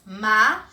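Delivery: macacó split as ma, ca, co with long pauses; three isolated beats on macacó; syllable by syllable. Shown as a demonstration. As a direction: say macacó pausing after every syllable.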